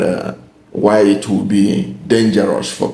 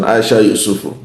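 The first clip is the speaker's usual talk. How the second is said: ordinary talk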